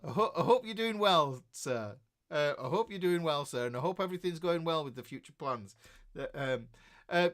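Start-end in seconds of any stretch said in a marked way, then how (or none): 0.1-2.0 real embarrassed laugh through the words; laughing apology. Real, not acted. To Al, whom he skipped in the chat, laughing sheepishly. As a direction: laugh it off while saying sorry.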